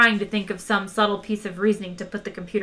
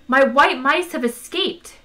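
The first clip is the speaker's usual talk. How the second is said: higher, louder announcement, drawn out; a touch of alarm, pitched up; 5 semitones higher, 6 dB louder than usual. A narrator's reading. Trillian bursting in about escaped mice, mild alarm.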